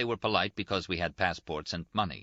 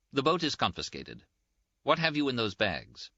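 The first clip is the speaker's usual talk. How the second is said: a touch of higher-pitched officialdom; lightly voiced lieutenant; 6 semitones higher than usual. Lieutenant to detained travellers, lightly voiced official. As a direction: hand down instructions in a lightly voiced official manner.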